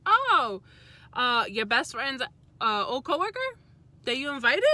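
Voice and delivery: high, loud mock-innocent question; spring the trap on him sweetly; sarcastic gotcha. Confronting her boyfriend, a high loud sarcastic question.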